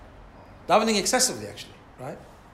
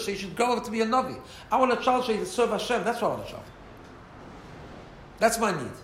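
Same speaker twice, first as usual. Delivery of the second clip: impassioned plea; 5 semitones higher than usual. Retold or imitated. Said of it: "Hannah answers and she says".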